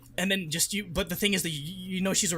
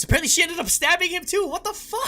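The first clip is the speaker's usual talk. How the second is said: high, loud incredulous outburst; shocked disbelief; 13 semitones higher, 3 dB louder than usual. Real, not acted. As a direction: voice shoots way up in disbelief. Reacting to shocking plot twist.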